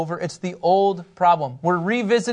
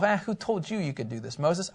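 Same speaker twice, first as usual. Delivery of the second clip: mock Hebrew sibling quarrel; 9 dB quieter than usual. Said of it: "That was my Hebrew".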